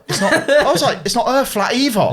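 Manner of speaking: high-pitched mock protest through laughter; laughing retold protest. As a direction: act out the objection while cracking up. Laughing while retelling own reply.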